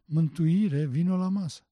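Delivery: mock summons to dinner; imitated mother calling. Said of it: "pe el așa-l striga".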